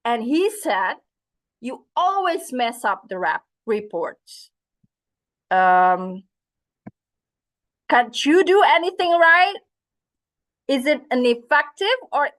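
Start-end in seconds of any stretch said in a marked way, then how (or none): 1.6-9.6 harsh scolding boss; a boss's annoyed rebuke; angry boss. Acted. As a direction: scold the worker for sloppy reports. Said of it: "There's a mad guy right here".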